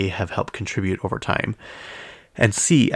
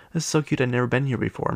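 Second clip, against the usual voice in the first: mock Monica; 3 semitones higher, faster than usual. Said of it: "Monica had to say".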